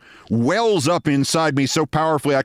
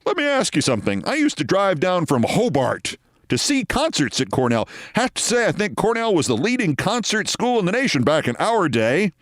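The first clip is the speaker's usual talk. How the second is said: lightly voiced genial old-timer; a hint of the hearty clubman reminiscing; mimicking Scott; 5 semitones higher than usual. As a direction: Scott chatting up Bill Maher, lightly voiced. Scott quoted, chatty clubman.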